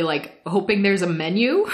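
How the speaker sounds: ordinary talk, nothing marked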